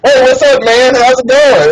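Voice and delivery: lightly voiced office bro saying hi; mock bro greeting. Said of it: "some white guy walks up".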